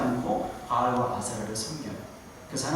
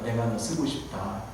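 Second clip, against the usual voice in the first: tender voice of God; 4 semitones lower, 5 dB quieter, slower than usual. Shown as a demonstration. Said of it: "한번 자기에게 마-, 말해볼까요?".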